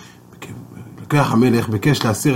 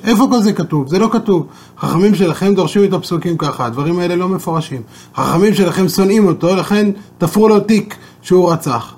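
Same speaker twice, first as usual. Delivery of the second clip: the king jeering to the rabbi about the sages; mocking king; 5 semitones higher than usual. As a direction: sneer at the sages as the scornful king.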